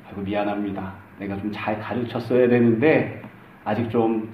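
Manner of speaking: bow your head and apologise quietly, taking the blame; humble apology. Pretend. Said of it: "사실은 이렇게 이야기해야 정상입니다".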